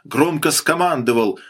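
usual speaking voice

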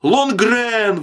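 high, drawn-out plea; desperate calling. A narrator's reading. Man adrift appeals to the silent sailor, desperate calling. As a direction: call out desperately for help. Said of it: "взывал Мэннерс".

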